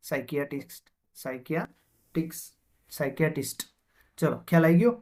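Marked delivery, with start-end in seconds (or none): 0.1-0.9 સાયકિયાટ્રિસ્ટ starting straight on S; silent P. Shown as a demonstration. Teacher showing students how psychiatrist is spoken, silent P. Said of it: "અહીંયા શું બોલાશે?". 1.2-2.5 સાયકિયાટ્રિસ્ટ slowly, broken before the last syllable; slow breakdown. Shown as a demonstration. Teacher breaking a hard word up for students, slowly.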